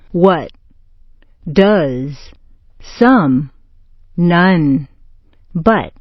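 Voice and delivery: "What", "Does", "Some", "None", "But" all on a neutral uh; schwa vowel. Shown as a demonstration. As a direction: separate demo words, relaxed uh in each. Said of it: "That's the schwa".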